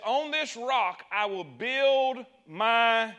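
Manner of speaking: slow, drawn-out proclamation; solemn declaration. Acted. Preacher voicing Jesus to Peter, slow solemn proclamation. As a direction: proclaim each word slowly like Jesus.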